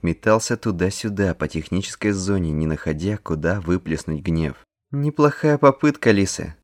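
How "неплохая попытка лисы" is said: высокий громкий ободряющий возглас; подбодрить команду, хлопая; ободряющий выкрик. A narrator's reading. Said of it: "зааплодировала товарищам Рене". (Рене подбадривает товарищей после пропущенного гола)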